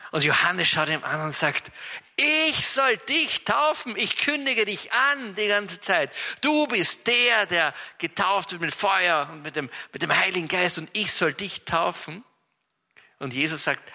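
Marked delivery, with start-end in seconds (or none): 2.2-12.3 astonished John. Acted. John baffled at baptizing Jesus.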